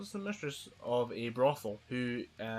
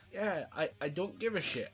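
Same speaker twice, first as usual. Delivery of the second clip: indifferent shrug; 7 semitones higher than usual. Retold or imitated. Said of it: "watch it and go".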